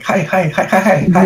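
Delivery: high, squeaky chorus of tiny voices; tiny bee voices. Acted. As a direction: squeak it like a swarm of tiny bees. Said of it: "hundreds of tiny little voices".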